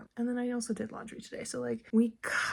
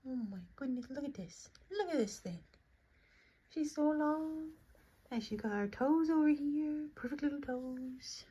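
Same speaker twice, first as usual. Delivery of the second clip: soft and higher, admiring; 4 semitones higher, 4 dB quieter than usual. Real, not acted. Mom softly admiring her sleeping baby's toes. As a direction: coo quietly over tiny toes.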